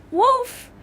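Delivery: very high, loud drawn-out cry of alarm; high-pitched full-voiced yell; shouting. A narrator's reading. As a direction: holler it high and long, as if calling a whole village. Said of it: "the shepherd boy again shouted".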